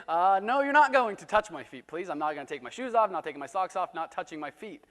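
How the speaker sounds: hammed-up horrified no; mock protest. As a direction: bristle at the idea, loud and quick. Emphatic refusal of foot washing.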